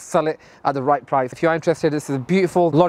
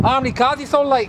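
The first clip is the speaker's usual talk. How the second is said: mock Newcastle accent; Geordie Shore accent; 6 semitones higher than usual. Quizzing the salesman on sales in mock Geordie. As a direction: put on a reality-show Geordie voice. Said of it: "like Geordie Shore".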